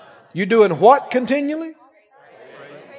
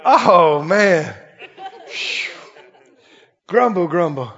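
mock grumbling; 3 semitones lower, slower than usual. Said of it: "look at the window and go".

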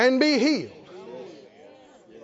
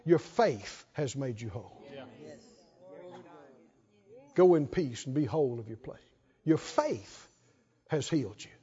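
low, soft quoted words of Jesus; quietly reassure, well below preaching pitch; hushed, low quoted blessing; gentle reassurance; 9 semitones lower, 9 dB quieter than usual. Retold or imitated. Voices Jesus telling woman she's healed.

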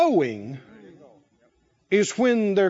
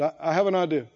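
lower, mock-pompous general; 7 semitones lower, 4 dB quieter, faster than usual. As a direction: play the general with a hint of self-importance. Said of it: "He might have said".

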